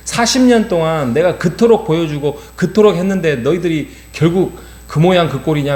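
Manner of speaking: mildly hammed-up divine reproach; angry God. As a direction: act out God's exasperated anger. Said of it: "하면서 막 분노하고".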